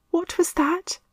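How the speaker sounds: ask, startled; whispered fright. A narrator's reading. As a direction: Meg hearing the ghost, startled. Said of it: "whispered Meg".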